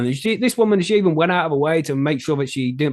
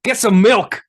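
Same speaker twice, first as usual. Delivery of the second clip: mock taunt; 7 semitones higher, slower than usual. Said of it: "Be like".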